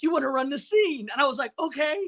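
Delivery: naive, eager, chirpy voice, high pitched.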